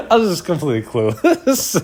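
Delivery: laughs while talking, at himself; laughing. Real, not acted. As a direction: chuckle through the words. Laughing at own cluelessness.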